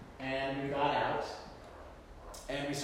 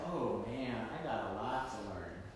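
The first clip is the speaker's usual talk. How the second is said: rueful realization; 5 semitones lower, 10 dB quieter than usual. Retold or imitated. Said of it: "I realized".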